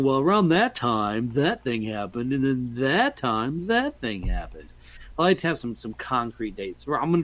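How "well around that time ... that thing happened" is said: mock vague telling. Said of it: "just saying".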